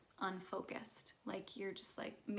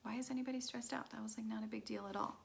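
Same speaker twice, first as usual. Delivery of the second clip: fast breathy whisper, brushing it off; mock unbothered shrug in a whisper; dismissive whisper; faster than usual. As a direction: whisper it like it's no big deal. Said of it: "some of them might feel like".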